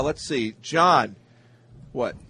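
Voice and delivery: talking through a mouthful of food; mouth full. Real, not acted. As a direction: speak around a bite of food. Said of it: "I have my mouth full".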